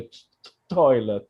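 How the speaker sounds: stuttering on the t; stuttering speech. Real, not acted. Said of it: "I was stuttering a lot".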